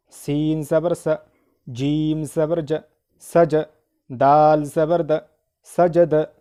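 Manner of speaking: measured, drawn-out letter names, short syllables; spelling drill recitation. Shown as a demonstration. Teacher leading learners through zabar, drill recitation. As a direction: recite letter by letter in a steady rhythm.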